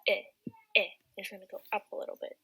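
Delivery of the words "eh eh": "eh" said as a short open e going up; rising eh sound. Shown as a demonstration. Teacher demonstrating the accented E in enchanté. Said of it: "your E is gonna go eh".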